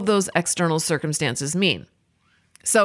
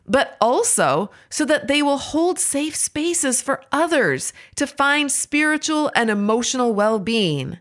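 lightly acted inner voice, pitched up; a mildly earnest plea, higher in pitch; brain's pleading; 3 semitones higher than usual. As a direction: voice the brain's argument a little high. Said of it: "And my brain says".

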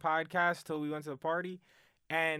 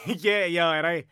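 laughing; 2 semitones higher, 8 dB louder than usual. Real, not acted. Laughing while agreeing.

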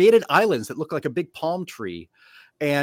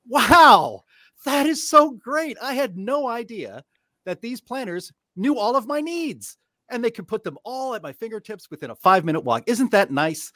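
sarcastic amazement; 7 semitones higher than usual. Acted. Pundit mocking planners who promise everything within walking distance, sarcastic amazement. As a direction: gush with fake gratitude, drawing the praise out.

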